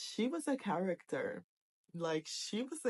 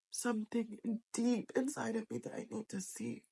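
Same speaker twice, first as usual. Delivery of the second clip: teary; 7 semitones higher, 3 dB quieter than usual. Real, not acted. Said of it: "I don't wanna keep crying".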